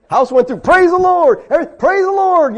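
high, loud, exultant praise; mock jubilation. Preacher mimics believers when good things happen, jubilant. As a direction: crow over each blessing. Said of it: "when good things happen to us".

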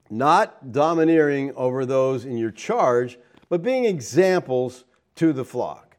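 slow, measured reading of scripture. Acted. Pastor reading Peter's verse to the congregation, slow and measured. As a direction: read the verse slowly and deliberately. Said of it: "Peter goes on to say".

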